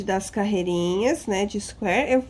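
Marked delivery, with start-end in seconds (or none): 2.1-2.2 hiccup cutting off the word. Real, not acted. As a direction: speak through a hiccup. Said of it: "eu tô com soluço".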